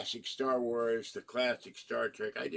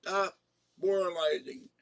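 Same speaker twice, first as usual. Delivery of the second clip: sharp, louder shut up; fed-up outburst; 7 semitones higher, 4 dB louder than usual. Retold or imitated. Romulan captain silencing a moralizing Picard, fed up and louder. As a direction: cut the lecture off. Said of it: "And I go".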